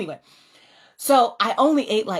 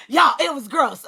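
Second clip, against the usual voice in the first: laughing emphasis; 4 semitones higher than usual. Real, not acted. Tells the women through laughter, laughing. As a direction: laugh as you admit it to the room.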